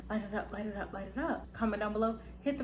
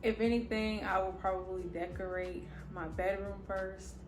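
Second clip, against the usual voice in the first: talking with retainers in, lisp; slight lisp from retainers. Real, not acted. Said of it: "I have my retainers in, so if you hear, like, a little lisp".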